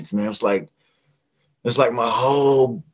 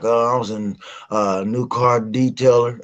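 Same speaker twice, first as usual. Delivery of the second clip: talking around chewing gum; mouth full. Retold or imitated. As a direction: gum in the mouth while speaking. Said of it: "you can hear the gum in my mouth".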